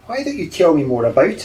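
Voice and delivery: put-on old man lightly coaxing; coaxing hypnotist. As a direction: gently draw the secret out of him. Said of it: "attempt to hypnotise him".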